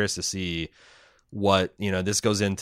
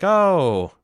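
smug villain. Retold or imitated. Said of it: "Billy and Homelander when he's like".

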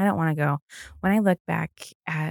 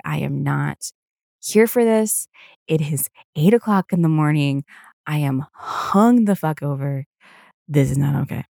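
louder, indignant grumble; mock rant; 3 dB louder than usual. Hungover on the morning train, a loud indignant grumble. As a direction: vent like a hungover commuter.

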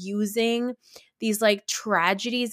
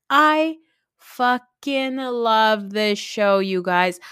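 excited gush; 2 semitones higher, 5 dB louder, much slower than usual. Real, not acted. Gushing about favourite show.

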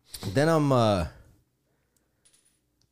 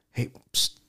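hushed whisper to catch the waiter; quick whispered hey; whispered psst; 4 dB quieter than usual. Retold or imitated. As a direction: psst him over under your breath. Getting the waiter's attention quietly.

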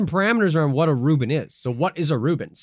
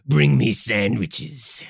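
very slow, low, purring ooh; campy drag queen; 4 semitones lower, much slower than usual. Pretend. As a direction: vamp it up like a drag diva. Campy mod persona.

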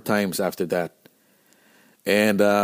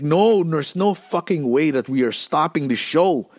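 heated refusal; 5 semitones higher than usual. Retold or imitated. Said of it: "I was so heated".

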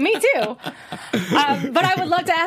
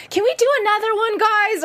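confident request; 10 semitones higher than usual. Pretend. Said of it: "are you in a position to where you're like".

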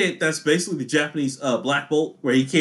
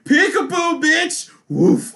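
a cocky, playful jeer, pitched up; cocky taunt; 9 semitones higher, much slower than usual. Retold or imitated. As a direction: tease him like a smug fighter. Acting a cocky anime taunt.

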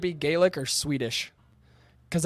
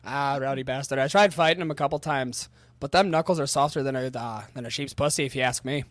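put-on British accent; 3 semitones lower than usual. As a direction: grumble it like a rough local. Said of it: "that's good though".

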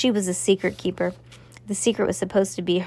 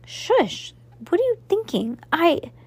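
much higher, sharp hushing alarm; urgent shush; 10 semitones higher than usual. Acted. Cass urgently hushes Max Ernest about the secret. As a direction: stop him before anyone hears.

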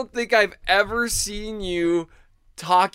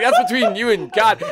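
imitating the host; 2 semitones higher, 5 dB louder than usual. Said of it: "And you're like".

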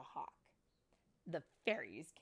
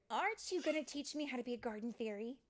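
pleading; 6 semitones higher, 4 dB louder, faster than usual. Acted. Tink pleads with Rosetta.

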